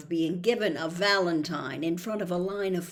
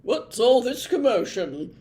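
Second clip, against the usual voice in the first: louder, higher officious voice; officious prefect voice; pompous prefect; 5 semitones higher, 8 dB louder than usual. A narrator's reading. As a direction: demand it like a fussy prefect. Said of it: "said another familiar voice as Percy Weasley arrived".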